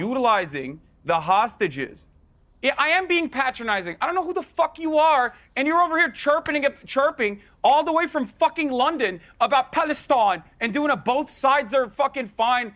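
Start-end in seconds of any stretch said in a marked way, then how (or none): 0.0-2.1 low, slow, drawn-out words; talking down with deliberate weight; patronizing. Real, not acted. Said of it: "That's very patronizing". 2.6-9.7 heated, higher-pitched outburst; openly scornful rant; losing it. Real, not acted. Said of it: "the breaking point was when I said". 9.7-10.4 mocking London accent on "Palestine"; London-accent jibe. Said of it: "I even did the fucking accent".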